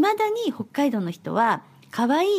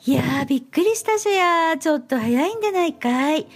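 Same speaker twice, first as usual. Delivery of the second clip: Hokkaido dialect read; 2 semitones higher than usual. Shown as a demonstration. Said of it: "もう一度やります".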